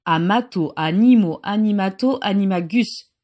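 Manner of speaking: a solemn, ringing incantation; clear voice. Acted. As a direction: declaim the spell cleanly. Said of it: "dit-il d'une voix claire".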